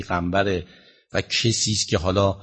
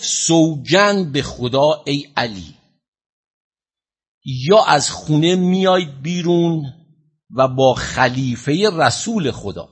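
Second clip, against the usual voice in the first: slow, drawn-out proclamation of an oath; retold shout; 2 semitones higher, slower than usual. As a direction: declaim it slowly, a restrained shouted ultimatum. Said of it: "با صدای بلند فریاد زد که".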